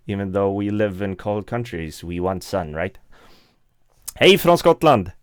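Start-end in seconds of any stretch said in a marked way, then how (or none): 4.2-5.1 bright Swedish hello, higher and louder; excited Swedish greeting; cheery greeting. Real, not acted. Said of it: "how do you say it in Scottish?".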